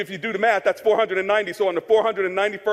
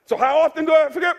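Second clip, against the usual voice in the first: higher-pitched, pressing question; acted questioning; 4 semitones higher, faster than usual. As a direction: ask it as the puzzled questioner. Asks as questioner, answers himself.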